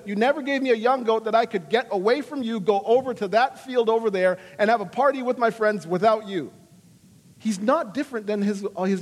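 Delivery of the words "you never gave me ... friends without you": resentful complaint. Retold or imitated. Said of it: "He says".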